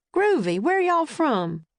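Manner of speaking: slow, drawn-out Southern US guard voice; a friendly Georgia drawl, taking his time; Southern accent. A narrator's reading. Southern embassy guard greets Jack and Annie, slow Southern accent. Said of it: "He spoke with a Southern accent".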